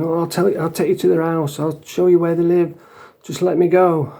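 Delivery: mock sobbing grass pleading with the officer; mock crying plea. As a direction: imitate a crying tough guy begging. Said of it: "he was laying on the floor crying".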